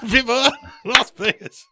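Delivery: slow crooning like a famous rock-and-roll singer. Acted. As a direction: croon it like a classic rock-and-roll crooner. Rock-and-roll singer costume, singing in that singer's style.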